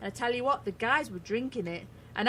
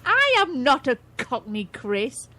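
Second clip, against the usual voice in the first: louder playful protest; mock outrage; 3 semitones higher, 6 dB louder, slower than usual. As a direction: bark it out in fake offense. Mock protest at Cockney tease.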